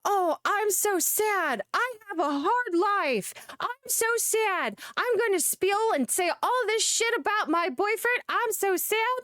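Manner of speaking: mock her fake sadness with a high whine; mock whiny sad woman. Streamer mocking a woman fishing for sympathy, high whiny mock sob-story voice. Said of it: "They do the".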